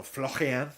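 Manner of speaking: "Florian" said with heavy stress and a foreign throaty r; exaggerated emphasis. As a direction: lean hard on "Florian". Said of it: "putting so much emphasis on".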